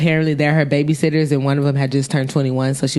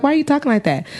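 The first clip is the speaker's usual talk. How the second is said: mock drunk girl; 8 semitones higher, faster than usual. Drunk girl repeats question.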